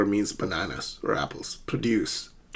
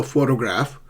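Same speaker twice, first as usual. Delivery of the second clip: "photograph" as PHO-to-graph; careful PHO-to-graph; first-syllable stress. Shown as a demonstration. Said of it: "So it's the secondary stress".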